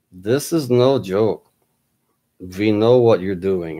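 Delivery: slow, lightly put-on German accent; a hint of a stern German agent. Caller insists to the doubter it's no joke, light German accent. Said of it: "heavy German accent".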